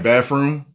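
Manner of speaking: "bathroom" said with an f for the th; comic "baf-room" on the word bathroom; jokey mispronunciation. Shown as a demonstration. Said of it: "I will say stuff like bathroom".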